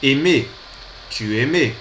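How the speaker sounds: aimais said eh-MEH, silent s; Tu aimais ending in a plain eh-MEH; Tu aimais with the final s dropped. Shown as a demonstration. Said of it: "sem o som do S".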